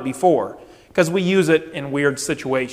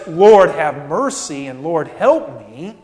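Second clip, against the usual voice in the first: humble plea. Acted. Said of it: "complaining of faith which looks up to God".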